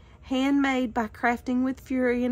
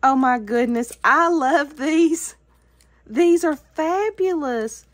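louder, thrilled burst of praise; delighted exclamation; 5 dB louder than usual. Real, not acted. To friend Tony over handmade stickers: loud delighted exclaiming. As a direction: gush over the gift out loud.

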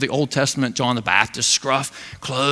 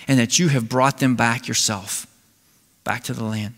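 earnest prayer; 3 semitones lower than usual. Acted. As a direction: pray it humbly under the breath. Elijah's prayer quoted.

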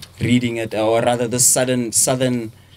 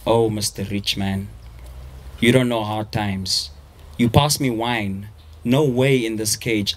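poem reading. Acted. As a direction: read the verse with weight and pauses. Reads his poem aloud.

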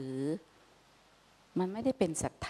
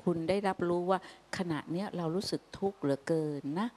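gentle sincere plea; 4 dB quieter than usual. Retold or imitated. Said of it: "มีลีลาที่พูดว่า".

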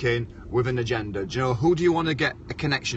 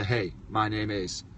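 in the style of a famous rapper; 2 semitones lower, 5 dB quieter, slower than usual. Retold or imitated. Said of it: "Eminem style".

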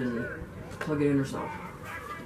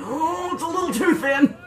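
mock chilly complaint; 10 semitones higher than usual. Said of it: "they're the first ones to be going".

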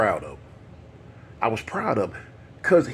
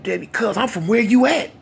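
youngster's reply; 10 semitones higher, 4 dB louder than usual. Retold or imitated. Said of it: "So the dude, like".

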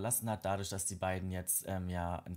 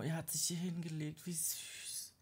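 hushed whisper; 5 semitones higher, 6 dB quieter than usual. Real, not acted. Seeing the toddler lie down, a tender whisper. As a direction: breathe it so the sleeper stays asleep.

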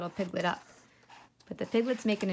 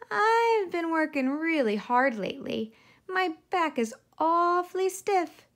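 high, loud bossy piglet; milk the massage, pleased; demanding piglet; 7 semitones higher, 5 dB louder than usual. A narrator's reading.

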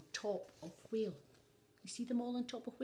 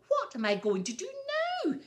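spluttering; 13 semitones higher, 5 dB louder, faster than usual. A narrator's reading. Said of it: "he spluttered".

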